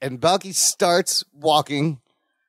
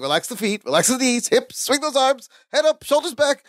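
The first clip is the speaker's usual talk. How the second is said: lightly imitated instructor, climbing higher; yoga teacher; 5 semitones higher than usual. Larry repeating his posture coaching, lightly voiced instructor rising higher. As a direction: run through the commands, pitch rising as you go. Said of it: "then Larry does the whole thing".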